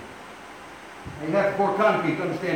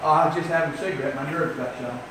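quick, lowered mock excuse; acted sheepish excuse. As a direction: mumble an excuse after being caught. Acted sheepish excuse after being caught.

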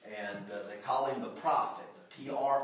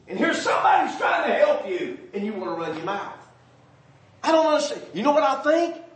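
much higher, much louder, impassioned; full-force preaching; 11 semitones higher, 11 dB louder than usual. Acted. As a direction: hammer it at the congregation.

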